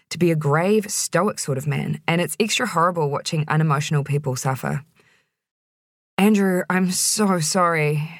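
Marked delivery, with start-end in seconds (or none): 6.2-8.1 slow, gentle apology; soft sympathy. Acted. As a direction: say it softly to a hurting friend. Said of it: "I said softly".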